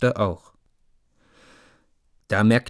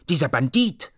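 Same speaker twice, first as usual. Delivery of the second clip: put-on little girl calling names; 6 semitones higher than usual. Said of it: "rief Mia Miene auch".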